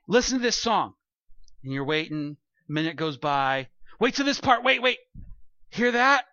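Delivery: friend sitting down to hear your song, eager; eager song-sharer. Retold or imitated. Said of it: "and you're like".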